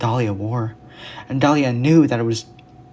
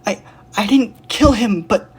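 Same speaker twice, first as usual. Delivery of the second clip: panicked protest; 10 semitones higher, 4 dB louder than usual. Acted. Dahlia protesting, interrupted.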